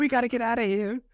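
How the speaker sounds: put-on high, fast frightened kid squeal; play-acted urgent escape plea; mock panic. Co-host joining in as the scared kid, mock panic. Plays along as scared child.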